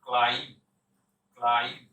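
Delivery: ক্লাইম্ব ending on 'm', silent b; loud, low, separate repeats of ক্লাইম্ব with no b; correct pronunciation. Shown as a demonstration. Teacher drilling learners, correct pronunciation. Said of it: "বিটা silent".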